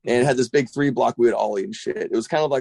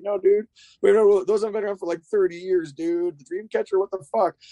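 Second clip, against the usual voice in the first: exasperated retort; 6 semitones higher than usual. Retold or imitated. Retorting to the clueless dad.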